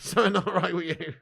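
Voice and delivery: chuckling at his own jab; laughing repeat. Real, not acted. Streamer teasing chat again, laughing. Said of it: "Something not right with you peeps".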